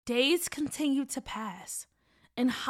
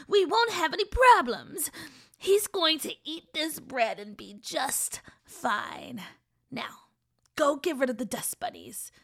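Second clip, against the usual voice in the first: witch voice; 3 semitones higher, 5 dB louder than usual. Acted. Witch scolds girl.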